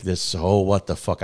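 loud disbelieving yell; loud mock shock at the interception; excited. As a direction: shout it in stunned joy. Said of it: "'cause I'm so excited".

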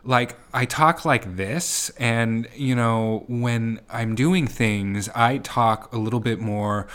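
slow, exaggerated highs and lows; impression of wife. Husband imitating his wife on request, slow lilting impression. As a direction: draw it out with an exaggerated lilt. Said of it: "can you try and talk how I talk?".

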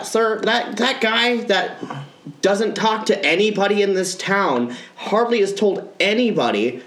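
a hint of a timid tattletale calling the cops; lightly voiced nervous caller, halting; fumbling, fake-polite informant; mock snitch caller.

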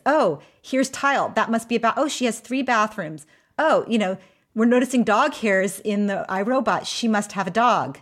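lightly animated mock discovery; imagined company voice. IRobot working out your home's layout, lightly acted discovery. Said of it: "They can tell".

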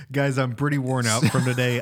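mock exhausted boast. Teasing the hard-worker claim, after laughing.

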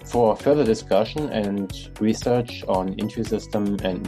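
upbeat host reading the sign-off; podcast outro read. Acted. Podcast outro over music.

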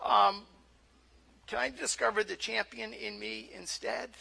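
small, tentative voice to God; meek mock request. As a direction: ask timidly, with pauses. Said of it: "and we're like".

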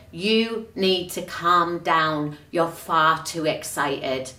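a hint of a prim scold; mock stern colleague. The colleague scolding the teacher, soft slow mock disapproval. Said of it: "she also said to her".

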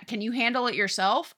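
everyday pitch, rising at the end; retold brush-off put as a question; mildly impatient question. Busy husband asks his wife, mildly impatient. Acting distracted husband, first take.

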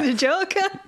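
Joker voice. Pretend. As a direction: echo it in a Joker voice. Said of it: "Joker impression".

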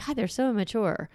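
mock exasperated sigh at the kids; wry, half-joking complaint; tongue in cheek. Shown as a demonstration. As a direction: roll your eyes at "immature", lightly ironic. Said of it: "I say it sort of tongue in cheek".

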